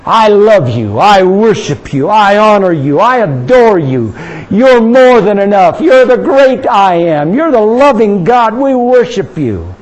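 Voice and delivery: open, slow worship declarations; praise out loud. Shown as a demonstration. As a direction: show them how to praise out loud. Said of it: "Get into it like a Jewish believer would".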